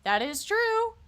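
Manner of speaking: shouted high in disbelief; loud mocking shout. Real, not acted. Streamer scoffs at the accusation, loud mocking shout. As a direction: yell it out, scoffing at the claim.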